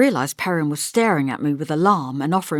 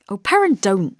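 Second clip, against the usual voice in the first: impatient; 4 semitones higher, 7 dB louder than usual. A narrator's reading. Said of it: "I said impatiently".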